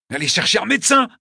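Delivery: high, desperate call for help; urgent shout. A narrator's reading. Narrator sending crowd for a doctor, shouting. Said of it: "leur criai-je".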